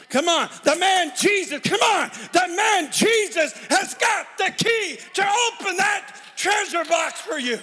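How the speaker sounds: rising shouted call to come back; fervent preaching. Real, not acted. Preacher calling the congregation back to Jesus. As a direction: plead with them to come back.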